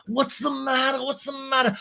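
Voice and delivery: very high, put-on fussing voice; Lisa. Recapper playing Lisa comforting crying Ariana, exaggerated high voice.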